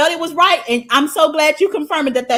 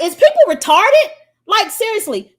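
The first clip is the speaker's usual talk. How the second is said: high, loud disbelief; exasperated shout; 10 semitones higher, 10 dB louder than usual. Real, not acted. Ranting at a commenter, a high exasperated yell. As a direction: throw the question up in exasperation.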